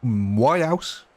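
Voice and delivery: lightly faked South African vowels on "house"; South African attempt on "My house?"; South African accent. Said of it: "South African".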